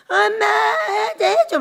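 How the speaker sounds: put-on high whiny kid begging; child whining mom please. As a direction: beg like a small child. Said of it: "막 이럽니다".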